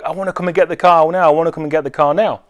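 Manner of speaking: put-on fast, insistent kid repeating himself; pushy eager kid. Impatient kid pressing the seller to sell now, fast and insistent.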